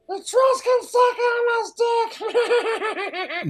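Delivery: high, slow, laughing put-on voice; sultry mock sexy voice. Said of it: "with a sexy voice".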